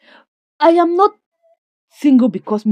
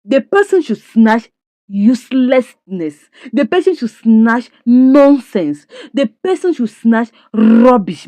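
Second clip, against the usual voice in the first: slow, louder, dragged-out scorn; scornful put-down; 3 semitones higher, 4 dB louder, slower than usual. Retold or imitated. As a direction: lean on each insult slowly, like spitting it out. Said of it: "Clara said".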